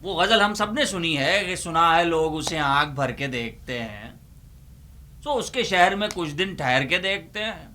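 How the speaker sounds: ordinary talk, nothing marked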